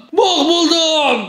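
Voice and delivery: slow, laughing disbelief. Real, not acted. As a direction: laugh through the words. Repeats it laughing slowly.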